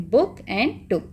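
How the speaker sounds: book and took with brief vowels; quick oo in both book and took; short oo. Shown as a demonstration. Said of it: "double ओ short है".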